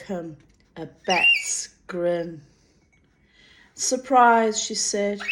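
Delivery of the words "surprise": sprung surprise. A narrator's reading. Molly springs out on him.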